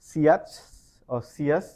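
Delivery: "সিয়াচ or সিয়াস" as two syllables, "see-as"; mispronounced ending. Shown as a demonstration. Teacher showing how many read the spelling, mispronounced. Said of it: "ভাবে এটাকে".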